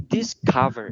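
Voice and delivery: "discover" ending in a Vietnamese ơ sound. Shown as a demonstration. Teacher sums up the pronunciation for students, ending ơ sound. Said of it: "thực ra đây lại là âm ơ".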